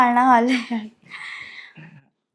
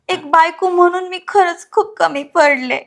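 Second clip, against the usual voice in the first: pitched-up, crying plea for forgiveness; slow, rising tearful confession; tearful apology; 3 semitones higher than usual. Acted. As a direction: beg forgiveness through acted tears. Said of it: "अगं, नको रडू".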